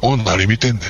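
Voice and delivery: a mild mock Osaka confrontation; lightly gruff Osaka-dialect retort. Customer confronting the clerk in Osaka dialect. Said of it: "思いっきり大阪弁になりましたけどね".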